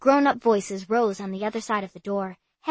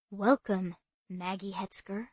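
mysterious; 7 dB quieter than usual. Acted. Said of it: "Murray said mysteriously".

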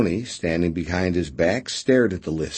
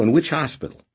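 nervous; 8 semitones higher, 4 dB louder, faster than usual. A narrator's reading. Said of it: "Boney said nervously".

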